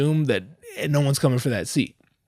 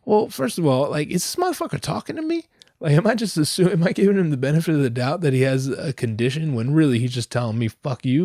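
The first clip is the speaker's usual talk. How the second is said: incredulous; 2 semitones higher than usual. Retold or imitated. Inner thought, incredulous.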